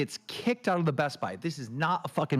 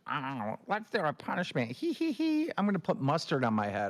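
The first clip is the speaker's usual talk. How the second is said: mocking silly streamer; 3 semitones higher than usual. Host mocking streamers' fake punishments, silly voice. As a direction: parody a goofy streamer. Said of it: "I'm so sick of this".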